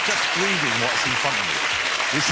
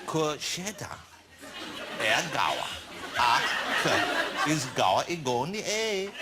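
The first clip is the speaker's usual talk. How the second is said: halting Irish reading with a put-on lilt; attempted Irish lilt. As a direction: sound out Gaelic in a hopeful Irish lilt. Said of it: "That's the, that's the Irish lilt".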